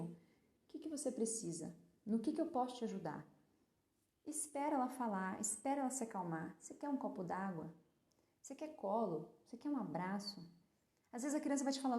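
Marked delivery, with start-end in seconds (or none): 0.0-3.3 soft gentle asking. Pretend. Parent asks upset child softly. 6.6-10.4 put-on soft, tender questions to a scared child; quietly asking a crying child if they want comfort; tender offer.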